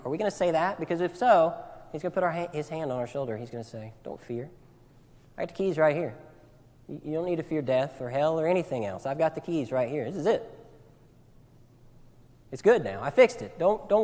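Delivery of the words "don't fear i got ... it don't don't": calm them, almost under your breath at first; a lightly voiced tender Jesus; gentle reassurance. Jesus voiced comforting believer.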